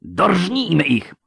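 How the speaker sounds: high, drawn-out, rousing cry; eager shout. A narrator's reading. Officer crying out to finish the enemy, eager shout. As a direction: call out for the kill, slow and high. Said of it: "krzyknął, zacierając ręce".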